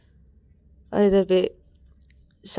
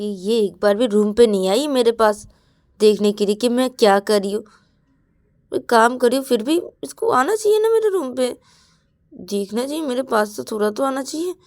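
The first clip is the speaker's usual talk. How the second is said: raised, loud complaining to herself; jealous sulking; 5 semitones higher, 4 dB louder than usual. Acted. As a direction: grumble aloud like a neglected friend. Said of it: "Ananya ऐसे सोचती".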